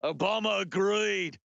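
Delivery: protesting mock Aussie; broad comic Australian vowels; Australian accent. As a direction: plead the point in a put-on Australian accent. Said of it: "And they're like".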